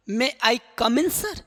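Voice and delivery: May I come in sir said slowly, rising on in; slow model sentence. Shown as a demonstration. Teacher modelling May I come in for interview, slow and clear. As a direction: model it word by word. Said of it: "आप क्या बोलोगे?".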